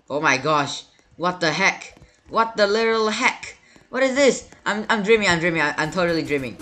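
high, loud frantic cries, racing at the end; panicked disbelief. Real, not acted. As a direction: panic and refuse to believe it. Panics at something in game.

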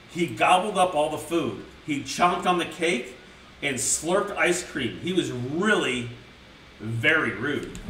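put-on slow, careful read-aloud to kids; lightly voiced children's story narration; storybook reading. A narrator's reading. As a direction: read it like a bedtime book. Reads storybook to chat.

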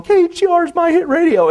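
high, loud hyped station shout; radio caller slogan. Retold or imitated. Callers phoning the station, loud hyped slogan. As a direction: belt it like an excited radio caller.

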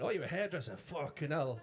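incredulous, laughing through it; teasing fake surprise; mock disbelief. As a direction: pretend to be amazed she's a hairdresser. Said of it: "Oh, I'll take the piss".

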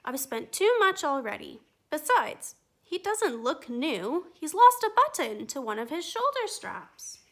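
firm, patient mother voice; tired mum saying no; mother refusing. Acted. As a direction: let the child down gently but firmly. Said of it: "her mother sighed".

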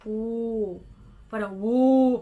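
O with very round lips, close to woo; O rounded all the way into woo. Shown as a demonstration. Teacher shows the round O: lips rounded like woo. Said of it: "very bilog na bilog na O".

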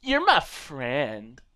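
slow, breathless whisper; creepy-sweet whispered friendship. Pretend. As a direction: whisper it like a secret. Whispered burger line.

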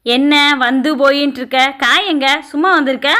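testy stepmother's scolding questions; irritable snapping. Acted. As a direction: snap at the child impatiently. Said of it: "சிடு சிடுன்னு பேசுது".

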